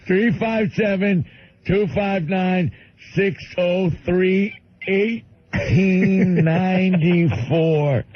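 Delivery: very slow, high simple-man voice; Bill. Retold or imitated. Bill giving the operator numbers, slow high caricature. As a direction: drag each number out earnestly. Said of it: "giving too many numbers".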